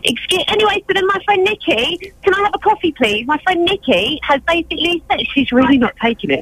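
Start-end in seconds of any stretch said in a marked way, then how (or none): 2.2-3.3 raised voice, asking a little too loudly; talking louder. Pretend. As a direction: speak up so the whole shop hears. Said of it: "Go back in there and talk louder".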